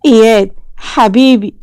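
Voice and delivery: a touch of choked fear; whisper-close, scared for his boy; frightened father saying his son's name; real terror. Acted. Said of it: "بلع ريقه برعب حقيقي".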